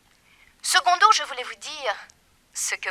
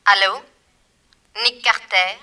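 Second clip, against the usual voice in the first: menacing loud call; 9 dB louder, faster than usual. Acted. Villainess threatens over telephone.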